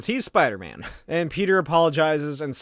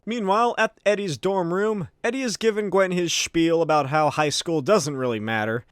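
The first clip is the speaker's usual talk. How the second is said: ordinary talk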